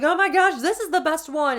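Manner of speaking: imitating own excitement; mock gushing. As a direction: gush over the new palette. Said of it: "I'm like".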